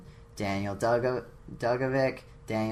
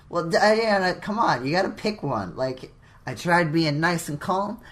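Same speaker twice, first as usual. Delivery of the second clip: loud, high exasperated protest; 6 semitones higher, 7 dB louder than usual. Real, not acted. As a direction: throw up your hands, louder. Exasperated complaint to co-host.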